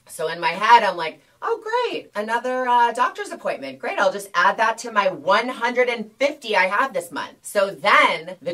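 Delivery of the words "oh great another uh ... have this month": high, dripping with sarcasm; sarcastic inner voice. Retold or imitated. To herself about another doctor's visit, sarcastic. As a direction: roll your eyes through every word.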